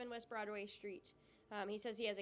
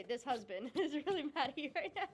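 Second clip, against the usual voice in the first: mock recruit reply; 3 semitones higher than usual. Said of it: "he would probably more say".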